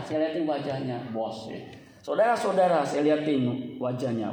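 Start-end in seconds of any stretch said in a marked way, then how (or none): 2.0-2.8 louder mock pulpit address; imitated plodding preacher. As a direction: mimic a long-winded pastor opening up. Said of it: "ngomongnya pelan".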